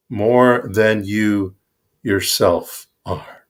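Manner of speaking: measured, reverent recitation of scripture; scripture reading. Acted. Reading the Gita to the audience, solemn recitation. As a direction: read the sacred verse as a solemn offering. Reads Bhagavad Gita aloud.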